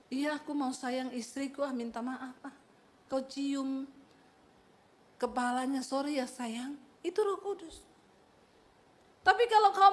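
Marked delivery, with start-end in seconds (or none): 0.1-6.8 quiet, gentle husband's voice; soft tender apology. Pretend. Husband softly apologising to his wife, quiet and tender. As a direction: murmur it tenderly to your wife.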